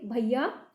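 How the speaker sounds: भैया with a clear open "ai" glide; open ai sound. Shown as a demonstration. Teacher models भैया slowly for pupils, open and clear. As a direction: stretch भैया so the अय्या sound is heard. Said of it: "इसमें अय्या की आवाज़ दिखाई देगी".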